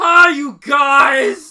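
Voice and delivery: put-on yelling cartoon voice. Imitating a cartoon character who shows up: yelling as Dill. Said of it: "Always yelling".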